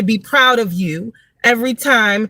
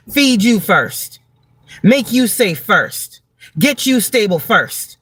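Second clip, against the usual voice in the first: 1 slow and deliberate; slower than usual. Real, not acted. Telling mothers to care for themselves.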